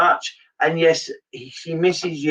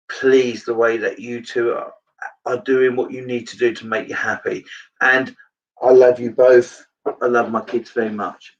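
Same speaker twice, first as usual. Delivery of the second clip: low voice, real emotion welling up; choked up; 4 semitones lower than usual. Real, not acted. Medium passing a dead mother's love to her children, choked up. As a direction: speak low through tears coming on. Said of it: "so she's making me cry".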